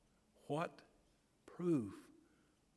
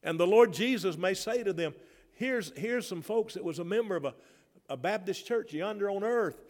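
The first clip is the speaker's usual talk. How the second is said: high, loud shouting praise; near shouting; 9 semitones higher, 9 dB louder than usual. Real, not acted. Pastor overflowing about heaven to the church, high shouting. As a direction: let the joy burst out loud. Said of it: "I can't hardly keep from shouting".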